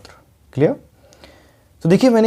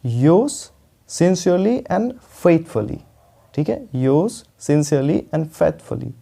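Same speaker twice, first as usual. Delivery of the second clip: "sincerely and faithfully" drawn out slowly; slow dictation; 2 semitones higher, much slower than usual. Shown as a demonstration. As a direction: dictate each word slowly. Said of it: "उसके बाद हम लिखते हैं yours".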